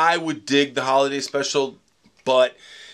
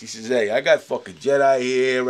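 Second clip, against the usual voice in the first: George Lucas impersonation. Retold or imitated. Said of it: "your horrific George Lucas impersonation".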